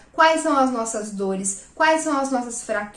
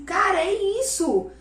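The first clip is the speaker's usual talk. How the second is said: excited realization; 6 semitones higher than usual. Retold or imitated. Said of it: "eu falava assim".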